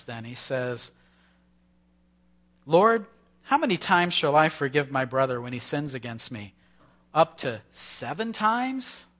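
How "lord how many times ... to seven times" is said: Peter asking. Acted. Peter's question voiced in sermon.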